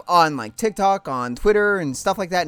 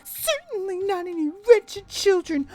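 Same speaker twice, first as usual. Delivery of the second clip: haughty high mother; 12 semitones higher than usual. Acted. Mother Lusamine scorning Lily, high and haughty. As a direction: look down on her daughter.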